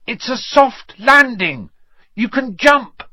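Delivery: high-pitched call carrying upward. A narrator's reading. Harry tells his friends it's safe to jump, calling up. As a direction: shout reassurance up to friends far above. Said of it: "he called up to the light".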